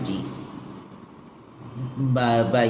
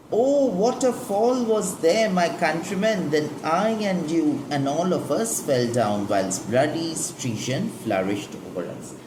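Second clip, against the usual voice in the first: recited Antony speech; 4 semitones higher than usual. Shown as a demonstration. Teacher reciting Antony's lament to the class, dramatic. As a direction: declaim it like Antony mourning Caesar.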